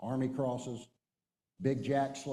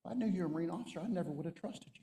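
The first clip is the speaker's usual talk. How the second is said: high-pitched mock dismay; dismayed complaint; 6 semitones higher, 4 dB quieter, faster than usual. Enlisted man regretting he trusted a Marine officer, dismayed. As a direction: imitate a man feeling thoroughly fooled.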